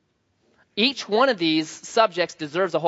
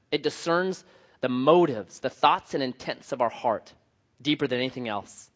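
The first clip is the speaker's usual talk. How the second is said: hushed, lower public prayer; 4 semitones lower than usual. Real, not acted. Leads the congregation in prayer.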